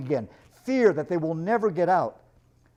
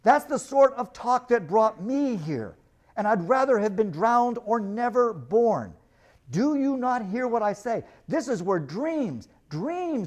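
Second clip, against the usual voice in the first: desperate warning; 4 semitones higher than usual. Acted. Wild stranger warns the crew.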